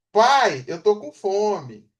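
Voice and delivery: put-on a child calling dad, slow and drawn out; child asking dad. Shown as a demonstration. Teacher voicing a child telling dad she's hungry, slowly. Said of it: "vamos botar o pai na onda".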